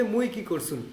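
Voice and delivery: মুই কি করছুন said in Rangpur Bangla; Rangpur dialect. Shown as a demonstration. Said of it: "রংপুরের ভাষায় আমরা বলি যে". (রংপুরের আঞ্চলিক উচ্চারণে)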